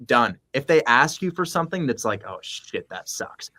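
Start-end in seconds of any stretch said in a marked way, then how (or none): 2.3-3.5 muttered aside. Retold or imitated. Realtor's reaction voiced.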